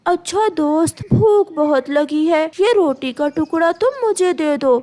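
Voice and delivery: sweet, coaxing bird voice; butter up the crow slyly; sly myna flattering. Acted. Myna coaxing the crow out of his bread, sweetly sly.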